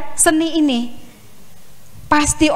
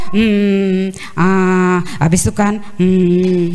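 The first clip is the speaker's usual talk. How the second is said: hesitant hmm and ah sounds; filled pauses; 9 semitones lower, much slower than usual. Shown as a demonstration. Lecturer demonstrates filled pauses to students, hesitant hmm. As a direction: drone the filler sounds as a stalling speaker. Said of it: "itu namanya fill pause".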